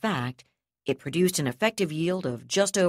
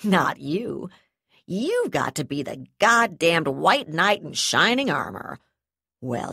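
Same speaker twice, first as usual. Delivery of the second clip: sneering; 5 dB louder than usual. Acted. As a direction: sneer it, rising to loud scorn. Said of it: "She sneered at him".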